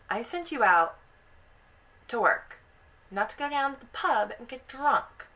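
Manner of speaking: loud, exasperated scolding; retold telling-off, punching the words; scolding wife. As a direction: scold a tipsy husband, pitch climbing. Wife scolding drunk husband.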